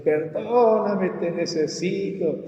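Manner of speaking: high, slow, drawn-out plea, easing off at the end; grito imitado a Dios. Retold or imitated. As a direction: re-enact crying out for forgiveness. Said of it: "estaba gritándole al Señor". (clamor agudo y alargado)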